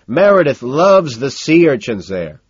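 high, loud, drawn-out party talk; gushing socialite. A narrator's reading. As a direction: gush slowly and loudly. Owen chatting at party.

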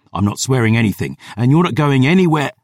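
urgent refusal. Acted. Refusing a dying friend's last wish.

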